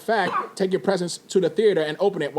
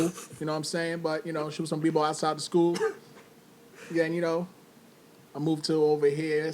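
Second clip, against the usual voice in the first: gangster voice. Acted. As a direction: play a laid-back homeboy from the block. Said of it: "Why are you talking like that?".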